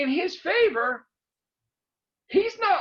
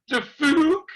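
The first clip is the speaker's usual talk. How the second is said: The fuck, punched loud and rising like a baffled face; mock baffled; 4 semitones higher, 6 dB louder than usual. Shown as a demonstration. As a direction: say The fuck like a confused emoji. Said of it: "the face on Facebook".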